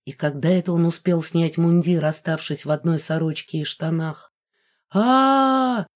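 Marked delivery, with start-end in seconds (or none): 4.9-5.9 high drawn-out wail of terror; a man screaming in fright; strained high yell; male scream. A narrator's reading. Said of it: "слышался голос".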